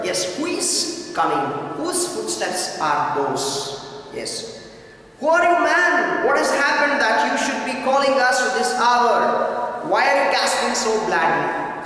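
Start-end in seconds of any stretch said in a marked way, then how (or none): 5.2-11.9 raised, urgent voice of a startled king; king's alarmed questions. Acted. King demanding who summons him at night, raised and urgent. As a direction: ask like a king woken at midnight.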